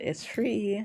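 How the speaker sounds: soft voice breaking up high mid-phrase. Announcing that the raffle ticket is free, voice cracking. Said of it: "My voice cracked".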